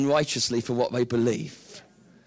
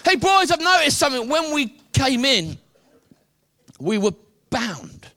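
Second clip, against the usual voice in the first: much higher and louder, thrilled call; excited discovery; 8 semitones higher, 5 dB louder than usual. Acted. Man in the fire tells his friends the ropes are gone, excited.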